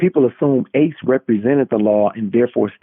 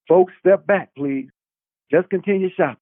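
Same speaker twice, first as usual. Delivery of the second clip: raised, commanding crowd voice; fake officer; 6 semitones higher than usual. A narrator's reading. Ace posing as police to the shoppers, commanding. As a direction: play the cop calming shoppers. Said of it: "claimed Ace".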